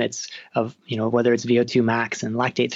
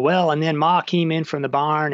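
half-hearted Southern twang, slightly raised; 4 semitones higher than usual. Retold or imitated. Author mimicking the audiobook sample, amateur Southern twang. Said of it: "I can't do a Southern twang".

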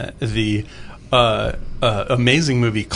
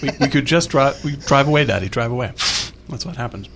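mouth full; 3 semitones higher than usual. Real, not acted. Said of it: "I'm eating so much on the mic right now".

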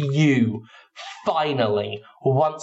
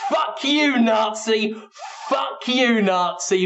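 mock crowd yell; 6 semitones higher, slower than usual. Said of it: "The audience is screaming".

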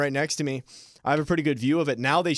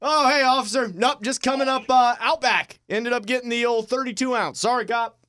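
lightly higher-pitched, chatty innocence for an officer; mock-innocent driver explaining to police; playing innocent driver; 5 semitones higher than usual. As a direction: casually talk your way past a cop. Acts out being pulled over by police.

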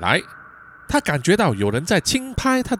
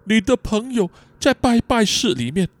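lightly voiced simple little brother; a hint of a childlike character voice; Lawrence; 3 semitones higher than usual. Lawrence answering his captive sister, lightly childlike.

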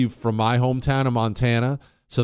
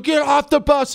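high, loud yelled order; imitating a screamed command; screaming drill instructor; 14 semitones higher, 6 dB louder than usual. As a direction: yell it like a drill instructor storming the bus. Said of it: "start screaming and yelling".

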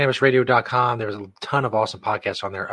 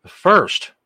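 big announcer call; 7 semitones higher, 7 dB louder than usual. Acted. Announcing the first voicemail.

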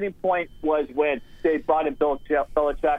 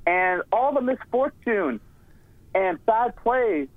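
higher, mock-earnest sarcastic praise; 4 semitones higher than usual. Real, not acted. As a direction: lay the sarcasm on, slowing for effect. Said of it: "I'm sensing a little sarcasm here".

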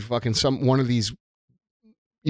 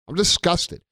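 disgusted; 3 semitones higher than usual. Real, not acted. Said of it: "I'm sure you've gathered that from my tone of voice".

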